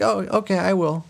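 high-pitched, appeasing mock agreement; lightly acted meek compliance; stalling wife.

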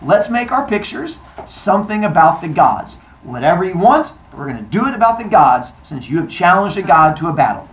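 loud, declamatory challenge; proclaiming goddess. Acted. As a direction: lay down the rules to a crowd. Goddess proclaims contest rules.

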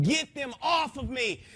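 a terrified man screaming at unseen attackers. Retold or imitated. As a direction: shriek it as if fighting them off. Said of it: "And I was screaming".

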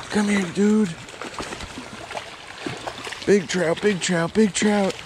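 excited, high-pitched yelps; thrilled squeals while landing a fish; shrieking jackpot winner. Real, not acted. Hooking a big trout.

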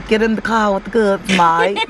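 playful Aussie put-on; mock-Australian, leaning on the last word; Australian accent. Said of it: "that was my Australian accent".

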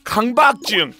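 high-pitched, worked-up scolding; exasperated rant. Real, not acted. Streamer ranting at singles who think they are funny, exasperated scolding. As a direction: rail at them, stretching the key words. Rants at unfunny daters.

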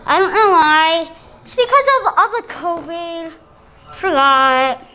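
muffled through a mask; talking through a face mask. Real, not acted. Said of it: "I'm wearing a mask right now".

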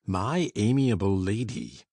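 low, loud, slow sneering echo; mock the phrase with contempt; diabolical sneer. A narrator's reading. Heathcliff sneers at the guest's compliment, low and loud. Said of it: "diabolical sneer".

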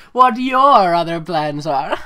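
corrected phrase read slow through a laugh; laughing correction; slow laughing reread. Shown as a demonstration. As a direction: drag out the fixed words, giggling. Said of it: "That's the opposite".

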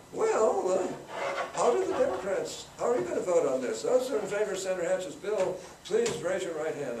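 high, loud, prim professorial call for a vote; typical professor. Retold or imitated. Democratic leader polling his caucus, high professorial voice. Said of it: "He was the typical professor".

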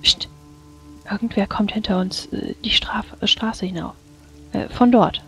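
prank whisper. Acted. Character warns, wagon approaching.

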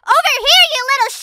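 annoyed shout. Acted. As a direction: shout it again, fed up. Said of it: "I said".

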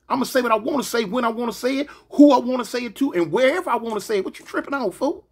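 mock heated standoff; heated retort. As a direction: throw it back at him hard. Retold heated defiance.

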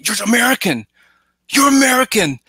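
retold cry of delighted recognition; excited exclamation. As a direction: blurt it out in amazed recognition. Retold excited Chinese moviegoers.

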